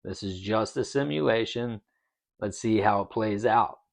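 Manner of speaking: recounted inner voice, easing off; calm self-reminder. Retold or imitated. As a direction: talk yourself down calmly and quietly. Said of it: "catch myself and remind myself".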